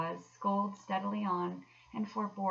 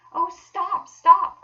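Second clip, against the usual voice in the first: high, loud cry of delight; squealing with delight; ecstatic cry; 13 semitones higher, 18 dB louder, much slower than usual. Acted. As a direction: Mole overwhelmed with joy, crying out. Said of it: "cried the mole in ecstasies".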